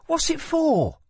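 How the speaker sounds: put-on a curious young woman asks; girl's voice. A narrator's reading. Lila asks.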